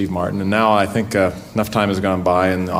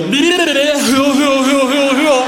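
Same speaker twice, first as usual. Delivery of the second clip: high shouted call for dinner; mother hollering the kids in; 5 dB louder, much slower than usual. Retold or imitated. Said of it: "she'd go".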